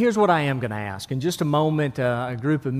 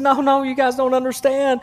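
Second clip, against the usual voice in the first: panicked father; 8 semitones higher than usual. Acted.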